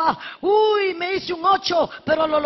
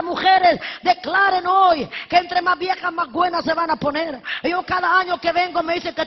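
preaching at full force. Acted. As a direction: preach it out to the church with fire. Preaching to congregation.

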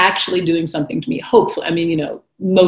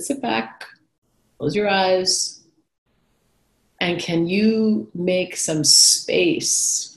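gentle guiding mentor; 3 semitones higher, much slower than usual. Retold or imitated.

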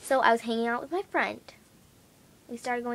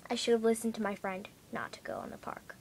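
whispered regret; 6 dB quieter than usual. Real, not acted. Regretful aside.

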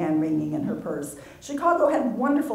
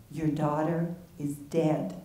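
soft, slow words near tears; tearful; 2 semitones lower, 6 dB quieter, slower than usual. Acted. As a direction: say it holding back tears. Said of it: "tears clinging to each word".

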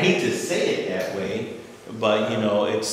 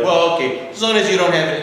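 hospital staff voice; 9 semitones higher, 12 dB louder than usual. Retold or imitated. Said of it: "And they're like".

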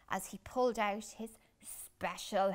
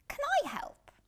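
much higher eager helper voice; a kind bear, much higher and louder; friendly bear voice; 5 dB louder, faster than usual. Acted. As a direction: offer help brightly. Polar Bear offers help.

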